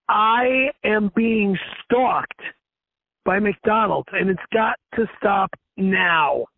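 slow, word-by-word insistence; slow, deliberate retold protest; slow emphatic complaint. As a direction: spell it out for the clerk.

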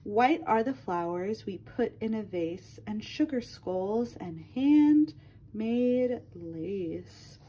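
lilting read-aloud for a class; reading to children. Acted. Teacher reading a color book to her class, lilting read-aloud. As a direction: read it to little ones, rhyme by rhyme.

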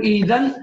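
إيذن begun with a glottal stop and a long ee, a small laugh at the end; teacher demo of إيذن at the start of a word, chuckling lightly; starting pronunciation. Shown as a demonstration. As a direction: say إيذن as the first word, stretching the ee. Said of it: "عند البدء بها نقول".

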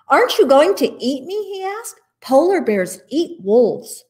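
timid pup asking if it will be eaten; shy, frightened pup. A narrator's reading. Pup asks the polar bear, a little frightened. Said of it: "The pup was shy and frightened".

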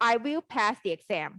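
slow model. Shown as a demonstration. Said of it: "ประโยคก็คือ".

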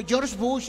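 George said the English way, "Yorsh"; "George" as in English, not Spanish; English pronunciation. Shown as a demonstration. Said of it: "no se traduce".

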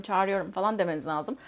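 ordinary delivery

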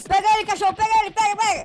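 loud, high sic him; loud command. Acted. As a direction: yell at the dog. Cop urges dog.

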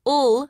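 "ul" as one sustained L; isolated L sound. Shown as a demonstration. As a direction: sound out "ul" for the letter L. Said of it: "are very different".

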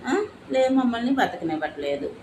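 tearful complaint with a sob in it; mother crying that they aren't allowed to live. Real, not acted. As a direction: say it through real tears. Pleading complaint about survival.

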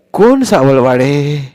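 a suspicious granny; probing grandmother. Acted. Grandmother questioning Sonya about his family, probing.

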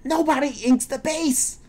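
very high strained cry; exasperated yell. Real, not acted. Player complaining to team after losing, high exasperated yell. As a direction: wail it at the top of your range.

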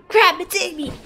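punchy alarmed exclamation; startled alarm. Acted. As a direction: exclaim it in sudden panic. Louder retake of same line.

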